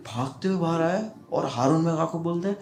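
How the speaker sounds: ordinary talk, nothing marked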